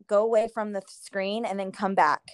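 faint, almost whispered; words barely carry over the line; barely audible. Real, not acted. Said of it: "Very low".

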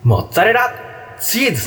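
put-on high boyish voice. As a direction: say it like a young boy. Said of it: "それ少年じゃん。".

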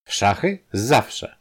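brightly eager answer; lively. Acted. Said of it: "odparł żywo Podhajski".

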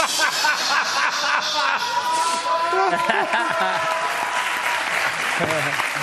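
long, high burst of laughter; helpless high-pitched laughing; uproarious laughter. Real, not acted. Group cracks up at the story.

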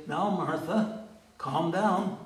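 slow, talking-down hush with a rise on Now; dismissive calm down. Shown as a demonstration. The wrong way Jesus could have answered Martha, patronising. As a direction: brush her off like a fussing child. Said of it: "Jesus doesn't say".

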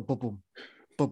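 imitated heartbeat thumps; heartbeat imitation. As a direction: mimic a heartbeat sound effect. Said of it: "like, a heartbeat".

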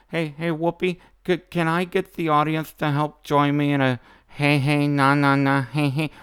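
mock imitation. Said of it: "I hate that stupid voice of hers".

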